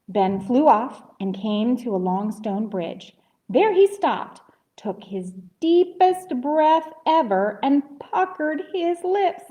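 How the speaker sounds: put-on lively reading to children; storybook narration. A narrator's reading. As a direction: tell it to little listeners, lifting the pitch as it builds.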